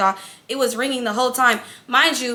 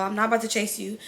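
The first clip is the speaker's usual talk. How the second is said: softer, lower muttered repeat; quieter repeat; 3 semitones lower, 5 dB quieter than usual. Real, not acted. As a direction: drop it down as an aside to yourself. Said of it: "repeated to stress refusal".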